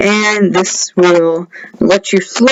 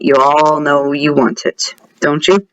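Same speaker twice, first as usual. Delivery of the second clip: sly teasing; 6 semitones lower than usual. Pretend. Gamer tempting viewers with the item, sly teasing. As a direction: lean on it lower, teasingly. Repeats the tease lower, slyly.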